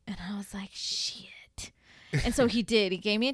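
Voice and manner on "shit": breathy muttered swear; whispered curse. Retold or imitated. Hearing he'll get a ticket, whispered curse. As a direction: let it slip out under your breath.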